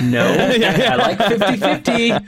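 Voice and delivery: lightly voiced smug contestant, slow and laughing; slow laughing mock boast. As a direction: play the gloating entrant, drawn out. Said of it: "those two guys right now are going".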